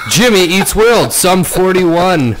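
slow, drawn-out radio host listing; hammy movie-trailer pacing. Acted. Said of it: "whole podcast in radio voice".

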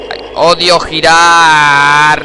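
whiny complaint. Real, not acted. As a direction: drag out "odio girar" in a long whine. The player repeats it, drawn out.

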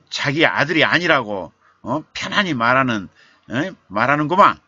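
father mocking the doctor angrily; sarcastic anger. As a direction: sneer at the doctor's calmness, rising in anger. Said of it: "화를 냈어요".

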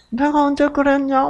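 high, breezy "when did I ever"; imitating a husband feigning innocence; mock denial. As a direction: toss it off like nothing happened.

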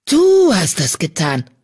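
slow, pressed accusation; hissing at his treacherous half-brother; angry hiss. A narrator's reading. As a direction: bite out the words in fury. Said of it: "fauchte er seinen Halbbruder an".

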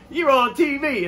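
very high-pitched mock insistence; retold excited fan. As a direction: imitate an amazed fan insisting.

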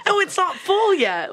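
high, slow, laughing through the words; laughing defence to a shocked friend; laughing protest. Real, not acted. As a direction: giggle your way through the excuse. Defending tampon habit while laughing.

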